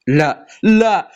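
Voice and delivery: slow, crying no; anguished no. Real, not acted. Player losing the spin, slow crying protest. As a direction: stretch it out like a wail.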